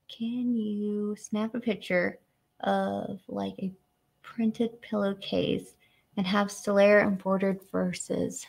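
slow, word by word, puzzling it out; rereading a viewer's question slowly to parse it; slow careful reread. Real, not acted. Rereading a confusing viewer question, slow and careful. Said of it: "Trying to, like, break down in my head".

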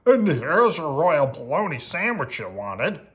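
put-on singsong cook; obliging royal cook. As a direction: present it like a storybook servant.

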